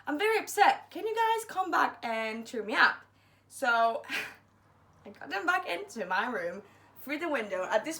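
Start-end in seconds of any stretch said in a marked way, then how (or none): 0.1-3.0 high, loud put-on upset voice; mock pitiful plea. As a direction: ham up being sad to lure friends back. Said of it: "being clever again".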